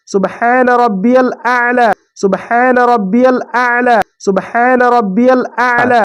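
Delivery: slow, steady prayer recitation; slow tasbih recitation; recited tasbih. Shown as a demonstration. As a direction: repeat it calmly as in prostration. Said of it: "पहले नाक रखेंगे".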